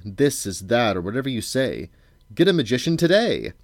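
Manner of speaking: theatrical, rising oratory; grand declaration. A narrator's reading. Magician sells his services to a bored king, declaiming grandly. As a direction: declaim it like a showman's pitch. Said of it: "Schmendrick came about to catch the wind again and declared".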